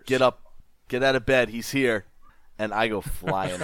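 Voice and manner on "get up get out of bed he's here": raised voice, held-back mock yell; mild acted yell. Player rousing Scram out of bed, mild acted yell. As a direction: half-shout an urgent wake-up call. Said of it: "like, yell over at Scram".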